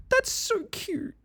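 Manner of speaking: very high, soft, slow gushing; squeal of delight. Real, not acted. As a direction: melt over something adorable. Touched by friends' stream.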